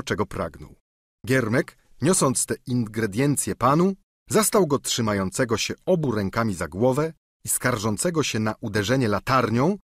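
ordinary delivery

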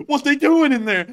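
high, loud imitation of incredulity; mock alarmed question. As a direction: blurt it out in hammed-up alarm. Acts listener's alarmed question.

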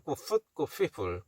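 "people" loosely said with an F after "foot"; rough, lazy pronunciation. Shown as a demonstration. Teacher giving up on the hard switch, "people" loosely F-sounded. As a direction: let "people" slide into "feeple", casually. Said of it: "이거 대충 내".

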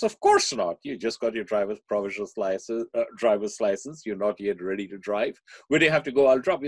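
mother putting her foot down, mock firm. Mother refusing her son the car, firm. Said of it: "The mother says".

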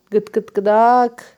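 slow clucking hen sounds; chicken clucking. Shown as a demonstration. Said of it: "Nasıl yapıyor?".

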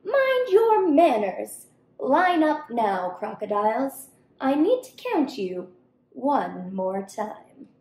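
mild scolding monkey. Acted. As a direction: scold them like a stern little teacher. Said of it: "the monkey scolded".

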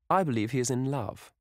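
put-on high, playful old hostess; teasing cry. A narrator's reading. Hostess teasing Dorian before the table, high and playful. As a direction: cry it out teasingly, pitched well up. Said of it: "cried Lady Narborough".

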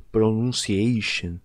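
pronunciation said slowly, syllable by syllable; slow pronunciation demo. Shown as a demonstration. Teacher asking which pronunciation is right, slow demo. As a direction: stretch pronunciation out for the class. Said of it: "Qual que é a certa?".

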